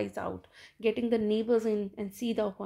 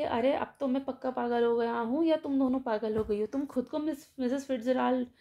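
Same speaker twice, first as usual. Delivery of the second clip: bewildered. Retold or imitated. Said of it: "वो कहता है हक्का पक्का कि".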